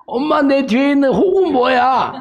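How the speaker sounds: put-on high-pitched child asking mum; little one pestering mother with a question; baby camel. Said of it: "낙타 새끼가 엄마한테".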